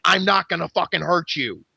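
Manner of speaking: acted-out forceful assurance; emphatic retold reassurance. Fighter shaking the pinned man, insisting emphatically. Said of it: "I'm shaking the guy".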